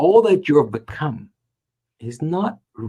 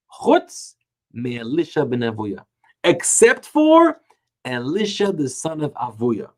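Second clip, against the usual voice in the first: heavenly proclamation; slower than usual. Retold or imitated. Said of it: "And it proclaimed".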